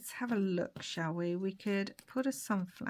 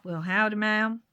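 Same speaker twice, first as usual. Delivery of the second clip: slow mock-American drawl; poor American accent; 5 dB louder, slower than usual. Sam greets his friend's bride Sally, poor American accent. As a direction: draw it out in a badly faked American accent. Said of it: "my really poor American accent".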